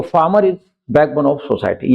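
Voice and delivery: slow, careful example sentence; dictating pace; slow example read. Shown as a demonstration. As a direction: read it out word by word for the class. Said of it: "slow example again".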